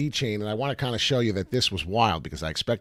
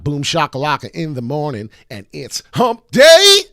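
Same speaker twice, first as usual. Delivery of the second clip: excited hype; 6 semitones higher, 13 dB louder than usual. Real, not acted. Host celebrating hump day with viewers, hyped. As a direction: stretch it out like a big announcement.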